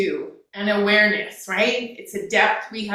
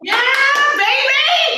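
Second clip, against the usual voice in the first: high, loud celebratory whoop; excited whoop; 7 dB louder, slower than usual. Real, not acted. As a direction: cheer like you just won. Cheering celebration.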